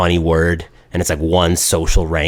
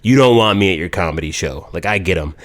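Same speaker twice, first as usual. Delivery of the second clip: smug. Retold or imitated. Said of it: "smug grin is like".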